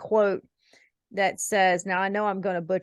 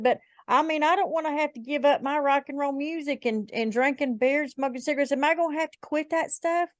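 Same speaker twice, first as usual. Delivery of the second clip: higher-pitched imitation of a girl; girl's voice; 7 semitones higher than usual. Hesitant would-be Christian girl asking the speaker, imitated higher. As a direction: quote her high, rising into the question. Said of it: "a girl ask me one time".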